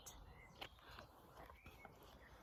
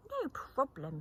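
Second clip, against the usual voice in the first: a lively, higher call; shouted; 5 semitones higher, 4 dB louder than usual. Acted. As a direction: frog calls out with confidence. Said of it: "shouted Very Small Frog".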